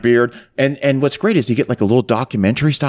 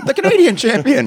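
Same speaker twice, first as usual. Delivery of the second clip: mock announcer; 13 semitones higher than usual. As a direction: announce it like the ring MC. Announcer parody again.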